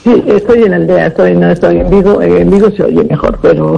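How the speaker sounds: over a bad phone line; phone call with poor reception; talking telephone. Real, not acted. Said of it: "pero con poca cobertura".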